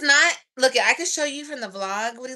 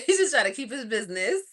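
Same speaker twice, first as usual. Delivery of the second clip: laughing; 2 semitones higher, faster than usual. Real, not acted. Laughing at herself.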